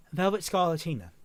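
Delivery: put-on shaky go at an Australian accent; attempted Australian accent. Velvet introducing herself to her new partner, in attempted Australian accent. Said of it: "I can't do a frickin' accent".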